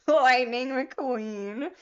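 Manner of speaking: slow, drawn-out name through laughter; laughing. Real, not acted. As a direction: savour the name while still laughing. Laughing at chat comment.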